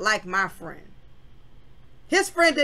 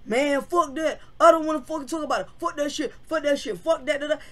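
retold angry outburst; 5 semitones higher, faster than usual. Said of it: "frustrated and aggravated".

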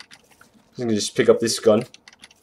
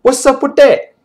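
raised, louder playful protest; high-pitched mock complaint; 11 semitones higher, 5 dB louder than usual. Gamer pestering the squad that now talks, high mock complaint.

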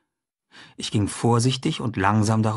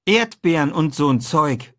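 slow, questioning echo of the words; boy echoing his friend's words in disbelief; repeating doubtfully; 5 semitones higher, 3 dB louder, slower than usual. A narrator's reading. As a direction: drag out Erdbeeren und so'n Zeug in disbelief. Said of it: "sagte ich".

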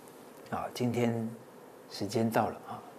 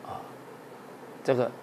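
ordinary delivery

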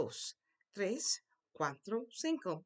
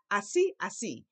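"Así" lifted on its accented second syllable; voice goes up. Shown as a demonstration. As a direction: model "así" with stress on the final í. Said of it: "your voice goes up".

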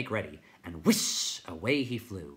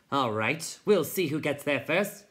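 tiny high voice; 7 semitones higher, 6 dB louder than usual. A narrator's reading.

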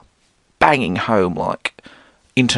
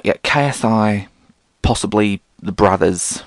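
put-on Australian accent.

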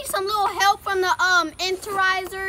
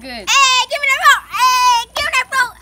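loud demand; 2 semitones higher, 6 dB louder than usual. Real, not acted. Grabbing for the phone.

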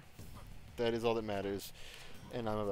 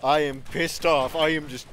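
angry rant; 3 semitones higher, 5 dB louder than usual. Real, not acted. Ranting angrily at the game.

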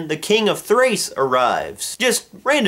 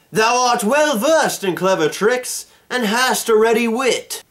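mock ancient Greek accent; 3 semitones higher than usual. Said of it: "I don't know if that's an ancient Greek accent".

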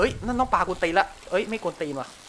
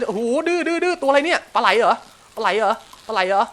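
higher and louder, urgent reeling; excited; 4 semitones higher, 6 dB louder than usual. Real, not acted. Gamer hooking an eel, excited loud cries. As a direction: shout the catch out as it fights.

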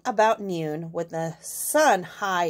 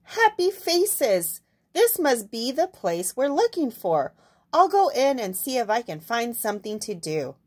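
lightly voiced hen. Hen telling the animals she'll go in. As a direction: speak up as a cheerful little hen. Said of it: "clucked the hen".

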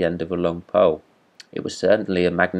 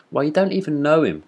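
cried out; 8 semitones higher than usual. A narrator's reading.

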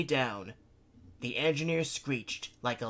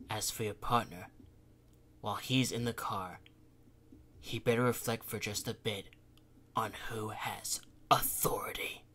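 fox spirit; 3 semitones lower than usual. Acted. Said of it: "A bitter quality ... crept into the Kitsune's voice".

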